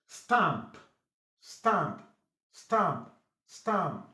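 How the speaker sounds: "stamp" with a short, open A. Shown as a demonstration. Teacher models short A in A-M words, short-vowel "stamp". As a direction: say "stamp" crisply, keeping the A short. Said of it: "it sounds short A".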